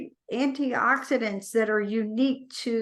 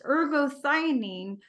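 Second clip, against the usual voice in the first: "Ergothioneine" rattled off a little quicker; said fast; 3 semitones higher than usual. Shown as a demonstration. Host showing a hard-to-pronounce compound name, said fast. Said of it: "Say that really fast".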